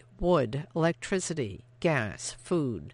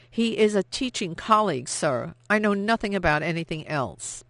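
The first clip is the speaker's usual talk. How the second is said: nervous denial; 4 semitones higher, 4 dB louder than usual. Acted. Frightened denial to officer.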